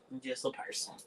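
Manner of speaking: quietly resigned "I'm just a person"; resigned murmur. Real, not acted. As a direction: let it drop, softly conceding. Resigned line, said twice.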